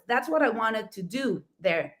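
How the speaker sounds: normal talking voice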